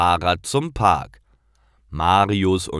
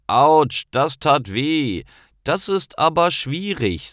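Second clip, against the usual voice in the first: put-on boy in mild pain; 8 semitones higher than usual. Paul has just fallen off the skateboard, higher mock ouch. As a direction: yelp after falling, then complain.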